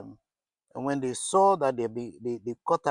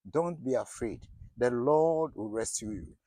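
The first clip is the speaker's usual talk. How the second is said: reassuring; 3 semitones lower, 3 dB quieter than usual. Pretend. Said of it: "you need that assurance".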